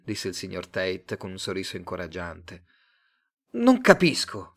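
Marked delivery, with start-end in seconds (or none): 3.5-4.5 higher, louder outburst; blurting out. Acted. Simon to Tate, embarrassed, blurting it out louder and higher. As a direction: burst out, flustered. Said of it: "sbottò Simon".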